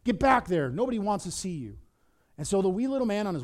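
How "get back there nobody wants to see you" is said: dismissive rebuff. Acted. Crowd pushing back the man nobody likes, mildly harsh rebuff. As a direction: shoo him back firmly.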